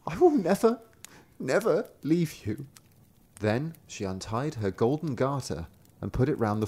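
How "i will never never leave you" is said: sister's vow. A narrator's reading. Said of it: "the girl said".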